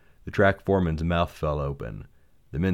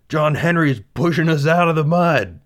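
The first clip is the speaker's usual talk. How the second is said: loud, high amazed shouting; excited shout; 10 semitones higher, 8 dB louder than usual. Acted. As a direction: yell it in wonder. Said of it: "the pilot cried".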